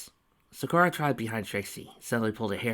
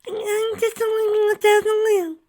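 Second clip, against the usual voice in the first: put-on tiny high hurt child voice; hurt little filly; 11 dB louder than usual. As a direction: let it slip out, hurt. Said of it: "slipped out slowly".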